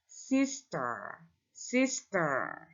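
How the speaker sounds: sister with a soft, drawn-out final r; correct pronunciation of sister. Shown as a demonstration. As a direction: repeat sister gently as the model, no trill. (pengucapan sister yang benar, r lembut)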